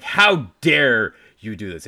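loud, slow mock outrage; pissed-off husband. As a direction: act out indignant fury. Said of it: "he is pissed".

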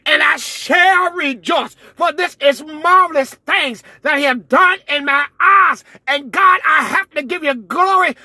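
rising, rhythmic preacher's call; preaching at full force. Real, not acted. Declaring and decreeing.

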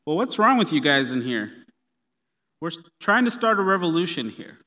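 loud, exasperated mock scolding; acted ticked off. Imagined Jesus barging in on the disciples, mock ticked off. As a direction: play a ticked-off leader telling off his followers. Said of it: "all ticked off".

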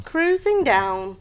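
slow, stretched-out echo; carefree echo. Retold or imitated. Host echoing co-host about the descent, slow carefree drawl. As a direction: stretch it out lazily. Echoes co-host's carefree line.

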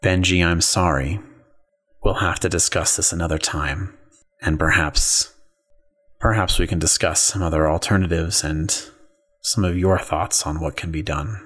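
low, disappointed villain; a calm, condescending mastermind. Acted. Janus replies in lower voice.

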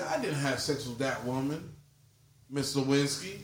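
"that woman", a pause, then "Miss Lewinsky"; pause before name. Shown as a demonstration. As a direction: set "Miss Lewinsky" apart after a beat, as if addressing her. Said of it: "he said pause represents him not talking".

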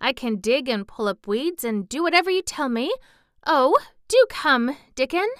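put-on eager, high-pitched girlish pleading; begging. A narrator's reading. Mary offering to help Dickon, begging. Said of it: "Mary begged".

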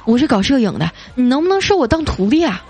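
lightly acted surprise at what they see; mildly astonished. Blind date seeing storyteller in person, mildly astonished. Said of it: "就一脸惊讶地说".

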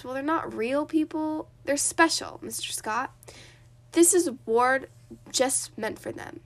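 with passion and gusto; lightly preached with gusto; passionate. Acted. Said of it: "he spoke with passion and gusto".

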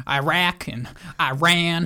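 Iraq and Iran drawn out slowly in imitation; imitated mispronunciation. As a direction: mimic his funny way of saying "Iraq" and "Iran", slowly. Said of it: "the way he pronounced Middle Eastern things".

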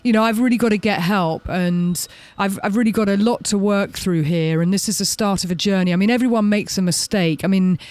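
mock sorry-for-himself plea; a hint of Harvey working the reporters for pity; playing the victim. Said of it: "play the victim card".

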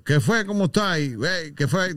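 lightly imitated Maracaibo greeting; a hint of Maracucho accent. Host showing how people imitate a maracucho, Maracucho accent. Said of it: "alguien va a imitar un maracucho".

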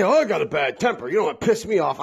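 imitating someone bragging about their bad temper; a lightly mocking boast; mock tough talk. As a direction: poke fun at the tough-guy warning. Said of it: "people always say".

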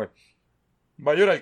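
loud, slow, stretched-out jeer; mocking taunt. Imitating the pitcher taunting Correa, slow loud jeer. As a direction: drag out the taunt like teasing a crybaby. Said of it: "le hizo como que un gesto de llorón".

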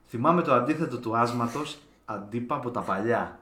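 slow, low, soft recital; deadpan message reading. Acted. Host reads a friend's closing message, deadpan recital.

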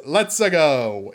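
slow, underplayed catchphrase impression; Chris Pratt voice. Host mocks the actor's Mario line, lightly imitated. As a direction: lightly mimic an actor who isn't trying the accent. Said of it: "in, like, Chris Pratt voice".

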